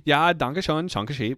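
loud, high fake German patter; mock German accent. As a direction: play along in a hammed-up German accent.

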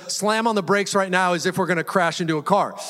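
what his wife heard, a crash-level alarm; mild mock panic; panicked mishearing. Shown as a demonstration. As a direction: read as a frantic slam on the brakes order. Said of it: "What she heard was".

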